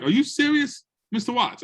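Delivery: can't believe her ears; amazed disbelief. Retold or imitated. Mom on the phone hearing her son did great, amazed.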